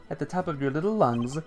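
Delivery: high, hammed-up sentimental lament; tearful old chairman. Old uncle mourns time passing, high mock-weepy lament. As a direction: play a weepy old uncle, sob spoken as a word.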